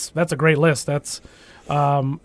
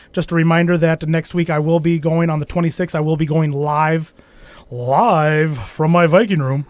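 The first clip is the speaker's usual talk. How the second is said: announcer voice. Shown as a demonstration. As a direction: announce it like a fight night host. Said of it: "That's my announcer voice".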